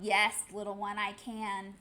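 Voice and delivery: kindly big whale answering the chick; smiling whale. Acted. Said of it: "The whale smiled".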